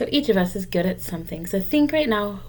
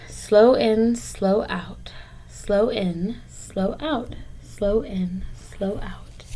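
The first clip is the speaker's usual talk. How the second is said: calm breathing guide; 4 dB quieter, much slower than usual. Shown as a demonstration. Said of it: "I can take three really slow deep breaths".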